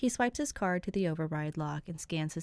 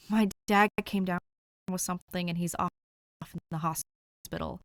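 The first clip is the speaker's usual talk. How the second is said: tired man voice; 2 semitones higher, 4 dB louder than usual. A narrator's reading. Dick voiced on phone.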